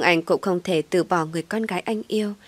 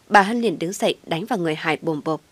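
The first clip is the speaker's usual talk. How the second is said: ordinary delivery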